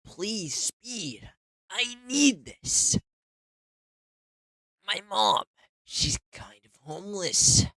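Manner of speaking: high, loud, drawn-out begging; loud desperate pleading. Acted. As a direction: wail the plea out loud. Repeated plea, loud take.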